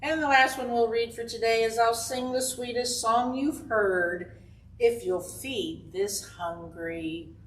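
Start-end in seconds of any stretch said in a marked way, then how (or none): 1.8-7.3 slow, drawn-out riddle reading; reading to children. Acted. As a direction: read it slowly so the kids can guess.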